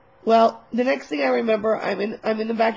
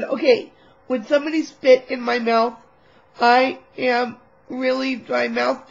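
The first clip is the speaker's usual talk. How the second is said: louder, strained desperate ask; desperate loud plea; 4 semitones higher, 5 dB louder than usual. Retold or imitated. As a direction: beg the room, pushing it out. Desperate request for spit.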